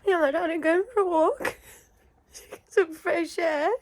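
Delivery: panicked crying. Real, not acted. Filmed during a real panic attack.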